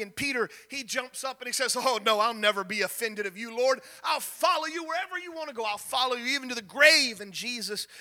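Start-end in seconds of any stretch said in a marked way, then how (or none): 1.8-7.2 Peter's eager protest. Acted. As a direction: blurt it out like an eager disciple.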